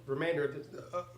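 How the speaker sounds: talking through a burp. Real, not acted. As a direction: burp while speaking. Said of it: "I'm burping".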